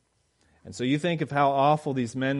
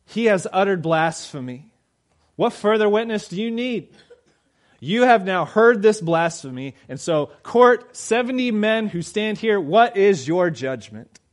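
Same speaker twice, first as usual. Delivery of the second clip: loud, high outraged accusation; angry accusation; 7 semitones higher, 8 dB louder than usual. Acted. High priest demanding the court condemn Jesus, furious and loud. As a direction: rail at the court in fury.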